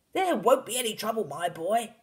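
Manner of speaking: loud, high, cutting in; excited cry. A narrator's reading. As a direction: wave away the worry loudly. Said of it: "cried Mister Cranky".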